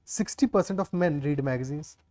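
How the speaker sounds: reading the question out word by word; slow read-aloud. Shown as a demonstration. Teacher reads the English question slowly to students. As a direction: dictate it slowly to the class.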